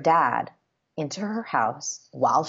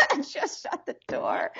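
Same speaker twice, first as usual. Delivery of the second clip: laughing; 11 semitones higher, 4 dB quieter than usual. Real, not acted. Embarrassed laugh while telling.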